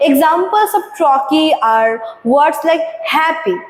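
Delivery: slow, deliberate textbook read-out; slow reading aloud. Acted. Teacher reading the definition to students, slow and deliberate. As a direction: read the definition slowly for the class. Reads textbook line slowly.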